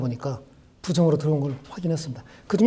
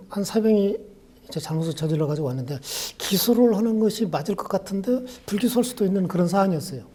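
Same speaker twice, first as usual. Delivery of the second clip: usual speaking voice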